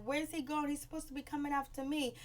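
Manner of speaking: high, quick imitation of a woman complaining; mock indignant. Amber inside asking where he went, mock indignant. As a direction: whine it high and fast as her.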